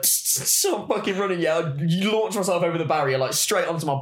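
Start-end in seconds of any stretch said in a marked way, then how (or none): 0.0-0.5 short hissed zap noises; imitated taser zaps. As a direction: mimic a crackling taser, unvoiced bursts. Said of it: "he's like".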